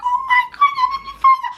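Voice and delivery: high, crying cry to God; panicked sobbing plea to Heavenly Father; desperate prayer. Retold or imitated. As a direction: wail a prayer through sobs. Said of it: "And I was like".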